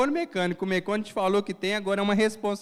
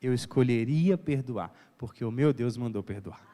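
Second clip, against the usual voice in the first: voice of godly love; 4 semitones lower than usual. Retold or imitated. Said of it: "Esse fruto aqui faz assim".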